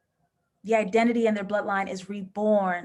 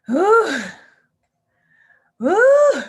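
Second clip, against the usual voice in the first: awed ooh; 9 semitones higher, 10 dB louder than usual. Real, not acted. Reacting to iconic line.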